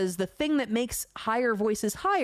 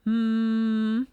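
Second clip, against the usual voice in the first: loud hum moved up into the nose; nasal hum; 3 semitones higher, 5 dB louder than usual. Shown as a demonstration. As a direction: hum up through your nose. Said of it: "Here's your nasal voice".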